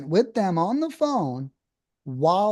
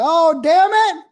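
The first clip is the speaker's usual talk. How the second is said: loud, high, slow cry of frustration; a mock outburst at a lowball offer; frustrated yell; 12 semitones higher, 6 dB louder than usual. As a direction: blurt it out like you just got lowballed again. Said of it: "I might yell or go".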